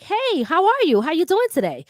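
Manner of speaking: loose friendly street greeting; relaxed casual hello; casual hood voice. Shown as a demonstration. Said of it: "I know how to switch it up".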